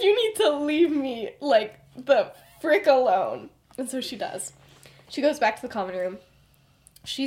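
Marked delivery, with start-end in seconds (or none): 0.0-3.5 mock angry dismissal. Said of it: "explodes at her".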